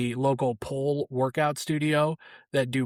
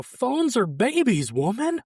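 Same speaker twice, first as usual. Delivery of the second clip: mock shout; 10 semitones higher, 3 dB louder, slower than usual. Comic comeback shouted at heckler.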